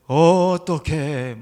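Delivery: loud, very drawn-out mock dismay; imitated comedy catchphrase. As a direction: stretch it out like a gag catchphrase. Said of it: "그 유행어를 만들었는데".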